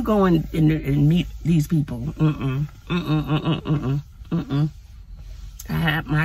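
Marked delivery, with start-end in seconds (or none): 2.0-4.7 laughing no. Real, not acted. Laughing refusal.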